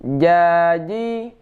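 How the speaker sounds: "Jaji" drawn out with airless, voiced j; J without air. Shown as a demonstration. Teacher corrects the mistake, saying a slow "Jaji" with airless j. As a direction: press mid-tongue up and release "Jaji" with no puff. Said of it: "Ini tidak ada".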